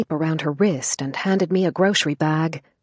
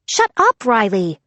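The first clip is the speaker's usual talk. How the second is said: high, loud furious shout; angry shout; 5 semitones higher, 4 dB louder than usual. Acted. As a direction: snap at him to shut up. Max snaps angrily.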